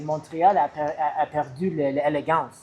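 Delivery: halting French, self-conscious. Retold or imitated. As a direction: quote it in shaky French. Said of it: "I'll say it in French".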